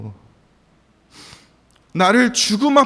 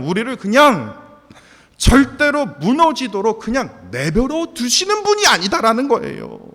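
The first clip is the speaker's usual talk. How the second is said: louder impassioned sermon voice; preaching; 6 semitones higher, 6 dB louder than usual. Acted. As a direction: preach with rising conviction. Preaching at full force. (열정적으로 설교하기)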